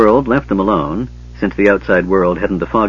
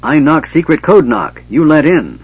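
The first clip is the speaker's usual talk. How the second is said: high, loud yell at a wall; 6 semitones higher, 5 dB louder than usual. A narrator's reading. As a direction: bellow it, fed up. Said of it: "Bupu yelled at the wall".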